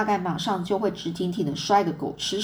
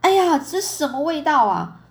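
higher, louder outcry; exclaimed cry; 7 semitones higher, 5 dB louder than usual. A narrator's reading. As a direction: cry out at a nasty smell. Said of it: "她大叫说".

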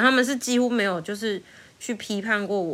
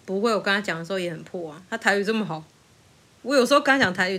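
ordinary talk

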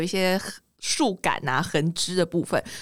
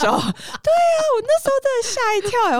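high, louder and fast; excited; 4 dB louder than usual. Real, not acted. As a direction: rush it out, still shaken. Recalling being startled. (又快又高地激动说)

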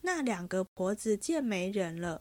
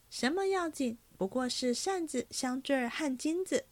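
put-on a slightly higher, girlish maid's voice, chatty; lightly voiced young maid; 4 semitones higher than usual. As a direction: read the young maid a touch higher and brighter. Narrator voices young maid Ying'er.

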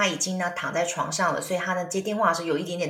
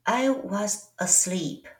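slow, drowsy, just woken up; slow it right down, half asleep; sleepy Carrie; much slower than usual. Pretend. Woken by a friend's late call, drowsy and slow. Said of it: "快睡着的Carrie".

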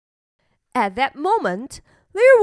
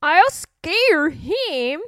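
muttered; 4 semitones higher, slower than usual. Acted. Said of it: "he muttered".

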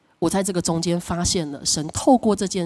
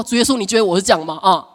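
mock aggrieved prayer; 3 semitones higher, 3 dB louder than usual. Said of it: "我用力祷告，我就说".

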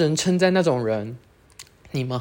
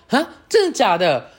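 higher, louder disbelieving gasp; retold surprise; mock shock; 6 semitones higher, 4 dB louder than usual. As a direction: act out being caught off guard. Her shocked reaction retold.

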